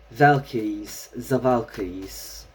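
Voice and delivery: lightly put-on, slow Scandinavian-style accent; silly villain accent. Shown as a demonstration. Reader testing which accent it is, silly villain accent. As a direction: try out the villain's accent slowly. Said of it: "I don't know the accent".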